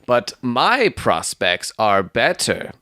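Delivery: mildly heated, slow rebuttal; heated retort. Acted. Stangerson countering his rival, slow and a touch heated. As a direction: stretch it out, insisting. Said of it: "said the other warmly".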